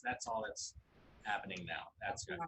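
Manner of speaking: usual speaking voice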